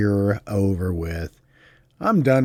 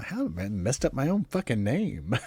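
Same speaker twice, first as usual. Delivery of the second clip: laughing; 6 dB quieter than usual. Real, not acted. Laughs at flubbing his name.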